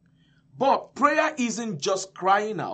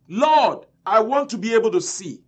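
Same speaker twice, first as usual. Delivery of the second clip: raised, emphatic appeal; confident request; 3 semitones higher, 4 dB louder than usual. Retold or imitated. Blind man asking Jesus for sight, confident request. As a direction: state the want firmly, hitting the first word. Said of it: "he presented it confidently".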